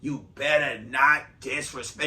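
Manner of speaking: low smoker's warning to the new guy; lightly voiced territorial older lady; a touch of the smoky coworker threat. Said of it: "she talks like this 'cause she smoked a lot of cigarettes".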